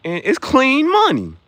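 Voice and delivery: high, smooth hustler pitch; mock slick businessman. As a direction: sell it like a shady investor. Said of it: "I'll be like".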